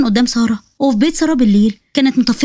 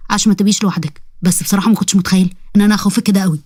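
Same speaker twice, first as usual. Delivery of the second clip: a lightly lower, sly jinn voice; jinn boy voice; 5 semitones lower than usual. Acted. Jinn Jamr pleading with Sara to keep her promise, lightly lower voice. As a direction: play the jinn bargaining with the girl.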